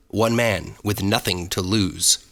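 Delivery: slow, dramatic trailer narration; movie trailer voice. Acted. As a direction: announce it like an epic trailer. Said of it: "movie trailer voiceover class".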